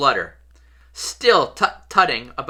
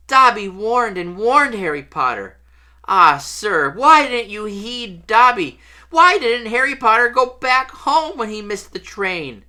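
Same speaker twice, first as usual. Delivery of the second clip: distressed high-pitched elf voice; Dobby; 8 semitones higher, 4 dB louder than usual. A narrator's reading. House elf reproaching Harry for ignoring warnings, high distressed voice. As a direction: wail it as a pleading little elf.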